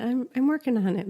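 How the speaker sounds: put-on light playful French accent, quick. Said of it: "my little French accent".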